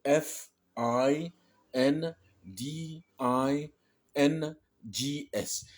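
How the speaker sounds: each English letter drawn out separately; slow spelling, letter by letter in English; spelled out. Shown as a demonstration. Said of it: "Est-ce que ça donne sa prononciation".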